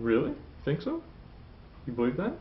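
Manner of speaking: "Really", "so" and "that" each lifted as questions; questioning rise. Shown as a demonstration. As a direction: ask for confirmation, pitch rising on "Really", "so" and "that". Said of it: "you're asking a question".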